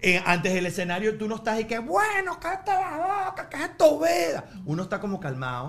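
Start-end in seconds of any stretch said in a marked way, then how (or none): 1.8-4.5 high, hushed voice of stage nerves; mock nervous inner voice. Comedian acting out his pre-show nerves, in a high mock voice. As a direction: play your own jittery self telling yourself to shut up.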